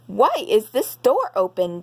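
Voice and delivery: a hint of a big papa bear, firm and a little loud; deep gruff voice. Daddy Bear finds the door open, a lightly gruff papa bear. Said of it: "in a deep, gruff voice".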